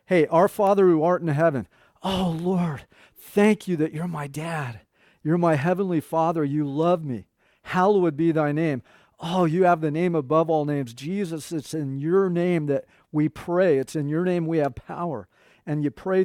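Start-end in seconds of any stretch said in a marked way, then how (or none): 0.0-11.0 the Lord's Prayer as a close, personal talk with a father; mean every word and talk to God like family; heartfelt personal prayer. Shown as a demonstration. Pastor showing how to pray the Lord's Prayer, heartfelt and personal. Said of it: "don't just say it verbatim".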